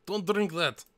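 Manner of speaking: moderately loud acted shriek; mock scream. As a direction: call out in alarm, short of screaming. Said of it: "When Miranda screams".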